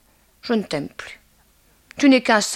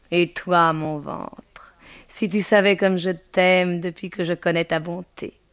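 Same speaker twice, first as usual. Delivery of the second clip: tender apostrophe; 3 dB louder than usual. Acted. Woman talking to her own belly, tender apostrophe.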